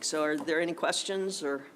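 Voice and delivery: breathless from running over; out of breath. Real, not acted. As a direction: speak out of breath after running. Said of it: "so that's why I'm out of breath".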